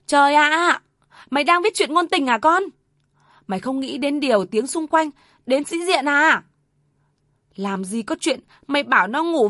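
high, loud, furious scolding; screaming outrage. Acted. Mother screaming at her son over his story, furious. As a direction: scream it at him in disbelief. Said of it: "bỗng gào lên".

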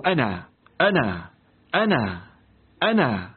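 put-on low, grave old sheikh repeating himself; the sheikh answering the poor student, low and solemn; old sheikh's voice. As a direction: say it low and weighty, an old scholar offering. Sheikh offers himself as father-in-law.

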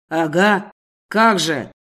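loud low scoffing shout; shouting in her face. A narrator's reading. Boss disbelieves her family reasons, loud low scoffing shout. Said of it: "Орёт он мне в лицо".

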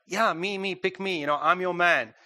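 volunteer yourself emphatically; acting out a keen, insistent volunteer; emphatic volunteering. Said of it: "it's more emphatic here".

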